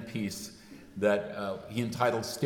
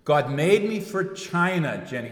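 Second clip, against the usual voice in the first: Scottish brogue; 5 semitones higher, 5 dB louder than usual. Retold or imitated. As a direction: try a Scottish brogue, not quite landing. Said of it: "I try to do this in a Scottish brogue".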